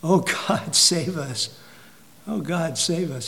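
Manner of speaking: soft, hushed retelling of a plea; a preacher softly echoing the cry after the towers fell; quiet plea. Retold or imitated. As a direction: murmur the prayer under your breath. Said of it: "what did people say?".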